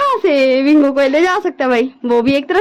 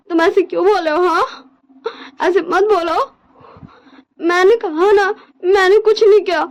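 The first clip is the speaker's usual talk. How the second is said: crying plea; 2 semitones higher than usual. Acted. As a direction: plead through tears, voice cracking. Wing pleads with alpha, crying. (रोते हुए गिड़गिड़ाना)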